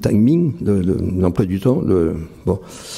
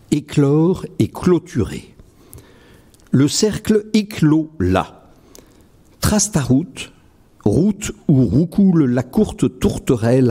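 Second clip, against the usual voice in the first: poem recital; 5 semitones higher than usual. Acted. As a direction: recite each line as if placing it carefully. Recites his own poem. (récitation de poème lente et posée)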